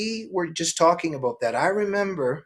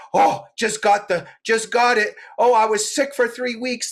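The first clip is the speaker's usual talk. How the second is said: high, bragging mock voice; lightly voiced gossiping woman; woman bragging about being sick, high mock voice; mocking gym women; 8 semitones higher than usual. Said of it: "there's other themes".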